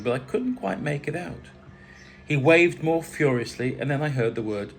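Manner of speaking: measured, expressive story reading; story narration. A narrator's reading. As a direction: read the memoir aloud, phrase by phrase. Reads own story aloud.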